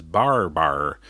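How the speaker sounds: Barbar with a faint, soft R. Shown as a demonstration. Podcaster demos what New Zealanders say, soft R. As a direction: say Barbar, R barely touched. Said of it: "what people are actually saying is".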